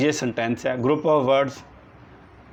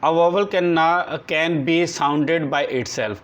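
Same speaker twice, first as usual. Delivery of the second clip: very slow, word by word, for copying down; slow dictation; 2 semitones higher, much slower than usual. Shown as a demonstration. Teacher dictating a definition to the class, slow and deliberate. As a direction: dictate each word so the class can write it.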